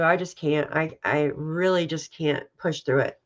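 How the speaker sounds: low, choked-up voice; tearful. Real, not acted. Streamer unable to finish the article, tearful. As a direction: hold back the tears. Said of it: "Sorry for crying".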